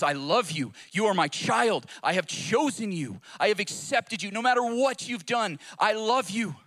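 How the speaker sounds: rising, insistent words of acceptance; the Father's declaration. Retold or imitated. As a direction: preach it as the Father's impassioned assurance. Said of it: "our Father in heaven says".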